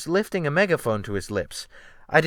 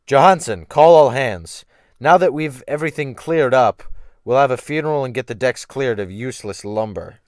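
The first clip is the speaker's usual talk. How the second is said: commanding captain; 7 dB louder than usual. Acted. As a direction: call the crew to order. Captain giving orders to mate.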